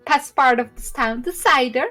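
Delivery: high, proud halfling woman praising cider and pie; chatty halfling mother bragging about her pie; halfling farmer. Acted. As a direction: lift the voice, boast warmly of her pumpkins.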